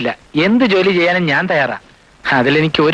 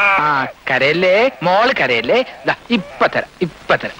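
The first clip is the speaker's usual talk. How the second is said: tender hushing; slower than usual. Acted. Father soothing his hungry baby, slow and tender. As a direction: soothe the baby while the milk cools.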